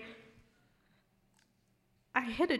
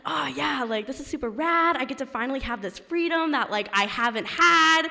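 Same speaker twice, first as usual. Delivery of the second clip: retold excited gushing; 2 semitones higher, 6 dB louder than usual. Friend offers her car for the weekend, excited. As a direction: relive the thrill of new freedom. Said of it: "I'm just really excited about it".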